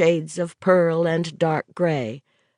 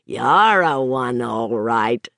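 hearty ribbing; 4 semitones lower, slower than usual. Acted. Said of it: "clapped Joe on the shoulder and laughed".

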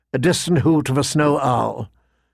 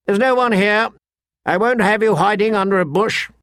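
higher, scornful command; commanding lordling; 7 semitones higher than usual. A narrator's reading. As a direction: scold a cowering underling. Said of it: "Sir Waymar commanded".

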